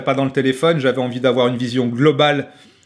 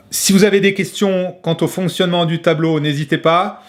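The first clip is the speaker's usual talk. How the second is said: whispering; 4 semitones higher than usual. Real, not acted. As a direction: breathe it out as a whisper. Whispered aside.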